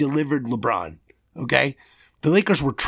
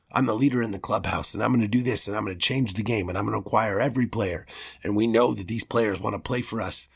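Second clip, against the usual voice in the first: lower, softer, smug boasting in a mocking aside; mock front-office bragging; 5 semitones lower, 4 dB quieter than usual. A fan mocking how team executives brag to the media, in a lower, softer, smug voice. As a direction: sneer the big promises like a bragging executive. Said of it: "That's how the Knicks talk".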